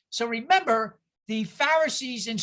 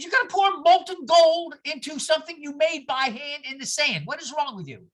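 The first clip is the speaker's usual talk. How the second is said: incredulous teacher; 4 semitones higher than usual. Retold or imitated. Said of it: "I said".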